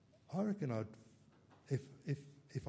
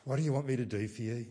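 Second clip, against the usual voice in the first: hurried, weary question after a sigh; fed-up, rushed delivery; exasperated; 4 dB louder, faster than usual. Retold or imitated. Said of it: "He's not exasperated with them".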